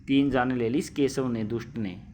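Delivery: mild anger. Acted. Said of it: "गुस्से के भाव में कह रही है".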